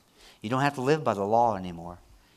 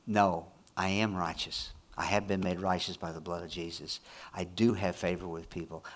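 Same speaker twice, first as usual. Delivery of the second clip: calm affirmation; 3 semitones lower, 4 dB quieter than usual. Shown as a demonstration. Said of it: "when it comes back to yourself".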